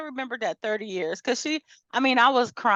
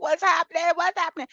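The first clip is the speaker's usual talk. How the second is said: confused; 11 semitones higher, faster than usual. Retold or imitated. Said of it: "I was like".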